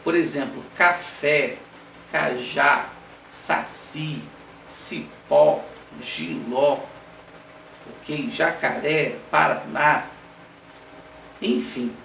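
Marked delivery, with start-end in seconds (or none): 0.8-6.8 café, cajá, saci, cipó, giló, one at a time, weight on the ending; final-syllable stress. Shown as a demonstration. Teacher giving oxytone examples, last-syllable stress on café, cajá, saci, cipó, giló. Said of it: "a última sílaba é mais forte". 8.3-10.1 Jacaré, paraná, each landing on its ending; final-syllable stress. Shown as a demonstration. Teacher adding examples, last-syllable stress on Jacaré and paraná. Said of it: "a última sílaba é mais forte".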